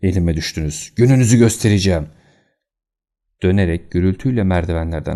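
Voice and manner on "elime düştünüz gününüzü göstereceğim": raised, menacing voice; angry threat. Acted. Fat man threatens the intruders, angry raised voice. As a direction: spit the insults at them.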